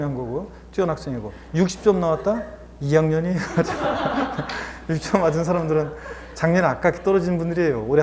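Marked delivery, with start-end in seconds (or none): 3.4-4.8 high-pitched burst of laughter; real amused laugh. Real, not acted. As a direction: crack up at your own remark. Laughs after own joke.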